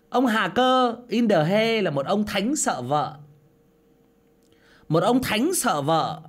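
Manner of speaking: echoing ghost voice. Acted. Effect voice reading comment.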